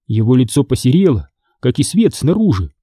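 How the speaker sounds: ordinary delivery, nothing marked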